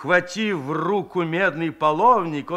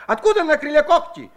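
scoffing laugh; 9 semitones higher, 6 dB louder, faster than usual. A narrator's reading. Shchukar scoffing at woman.

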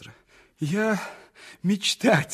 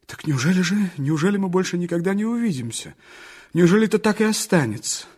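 pleading; 3 dB louder than usual. Acted. Dreamer begging the girl at parting, louder. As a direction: beg her not to leave for good.

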